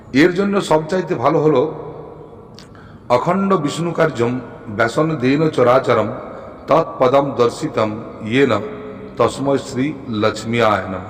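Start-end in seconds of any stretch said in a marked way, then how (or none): 3.1-11.0 measured Sanskrit chant-like recital; deliberate, reverent-style reciting; mantra recitation. Shown as a demonstration.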